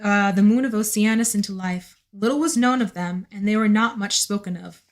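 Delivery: story narration. A narrator's reading. Reads novel aloud.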